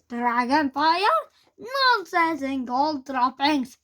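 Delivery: slow, loud scoffing disbelief; scornful snort. Acted. Teacher snorting at Hiccup's dragon-fire theory, scornful. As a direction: scoff it off as nonsense. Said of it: "Gobber the Bell snorted".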